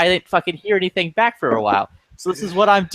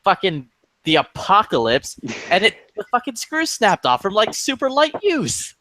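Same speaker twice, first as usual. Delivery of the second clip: mildly indignant retelling, rising higher as it goes; retold hostility; 4 semitones higher than usual. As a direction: retell an irate complaint, climbing in pitch towards the end. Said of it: "Yeah, I'm hostile".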